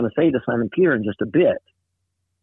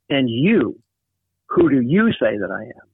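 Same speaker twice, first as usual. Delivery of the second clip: "And you" thrown forward and stressed. Shown as a demonstration. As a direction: open with "you", the first word, stressed. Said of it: "you hear the emphasis?".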